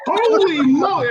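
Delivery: high, slow, drawn-out mock amazement; amazed holy moly. Doctor imitating his amazed patient, high slow awe. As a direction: stretch it out like a stunned patient.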